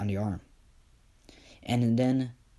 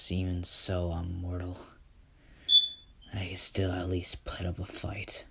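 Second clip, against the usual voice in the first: defiant whisper; 3 semitones lower, 5 dB quieter than usual. Acted. Izuku answers Enoch.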